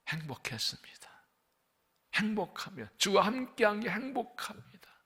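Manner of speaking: a gentle retold whisper of thanks; whispered prayer. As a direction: whisper it as a private prayer to God. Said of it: "울면서 기도했어요".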